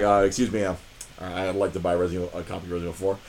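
imitating a sheepish, low-voiced customer. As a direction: ask low and hesitantly, embarrassed to be buying. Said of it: "I sheepishly walk into my own".

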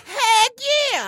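high, thrilled shout of yes; excited. Real, not acted. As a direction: jump at the offer. Eager yes to the money.

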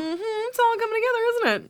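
knowing conspiratorial voice; sly knowing. Retold or imitated. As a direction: tease it like a detective cracking the case. Sly knowing quote of herself.

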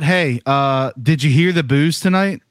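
blunt, needling version of the question; blunt mock question. Shown as a demonstration. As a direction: poke at him with the question.

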